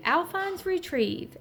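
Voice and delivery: commanding a pet. Acted. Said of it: "Louis would say".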